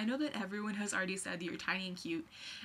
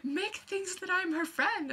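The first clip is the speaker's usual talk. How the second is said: high, louder, slow fangirl gush; starstruck gushing; 10 semitones higher, 5 dB louder, slower than usual. Retold or imitated. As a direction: gush like a giddy teenager. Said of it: "and then I was like".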